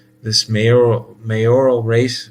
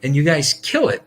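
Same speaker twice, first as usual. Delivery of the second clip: furious outburst; 7 semitones higher than usual. Real, not acted. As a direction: blast the phrase back at them. Furious rant at abortion jargon.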